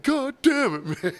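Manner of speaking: put-on drunk guy's high, drawn-out groan of complaint; Hunter impression. Drunk regular whining to the server about cleaning up. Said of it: "your Hunter impression".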